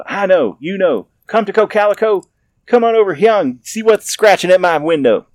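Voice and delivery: high, loud nervous call; calling the dogs. Acted. Scared old man calling dogs from window, high loud call. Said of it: "eased to the window and called".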